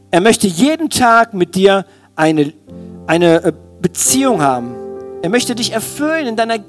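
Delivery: normal talking voice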